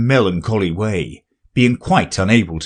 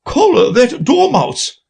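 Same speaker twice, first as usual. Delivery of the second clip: much higher, loud, slow shriek; queen shrieking; 14 semitones higher, 3 dB louder than usual. Acted. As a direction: scream the order at the court. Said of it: "the queen shrieked out".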